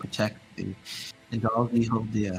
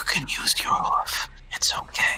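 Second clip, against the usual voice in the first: quiet, hushed, breathy confiding whisper; 10 semitones higher than usual. A character whispers to Pink while offering a pinky promise, whispering. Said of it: "he whispers".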